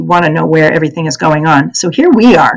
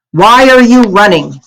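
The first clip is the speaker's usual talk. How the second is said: lightly voiced harsh soldier, louder; a soldier questioning the girl, a hint of harshness; 4 semitones higher, 5 dB louder than usual. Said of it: "the harsh voice asked".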